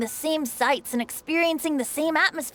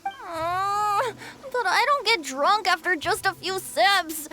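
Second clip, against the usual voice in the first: whiny protest; 4 semitones higher than usual. Acted. Protests being refused a drink.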